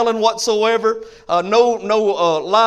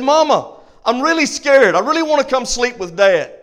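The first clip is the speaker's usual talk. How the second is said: a hint of a frightened child pleading; scared little boy; 3 semitones higher than usual. Little boy calls down to his mama, lightly voiced and pleading. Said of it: "shouted out again from upstairs".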